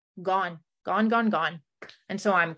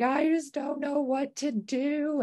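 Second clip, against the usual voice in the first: retold crying; 9 semitones higher than usual. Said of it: "starts crying".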